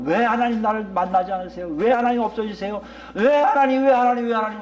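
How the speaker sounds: imitated desperate prayer, building; insistent, repeated appeal rising in urgency; crying out to God. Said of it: "그게 바로 부르짖음이에요".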